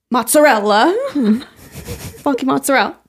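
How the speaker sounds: Mozzarella as "mutz-uh-REL", end dropped; New York mozzarella. Shown as a demonstration. Showing how her mother says mozzarella. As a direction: clip mozzarella to "mutzarel". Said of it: "how I say mozzarella".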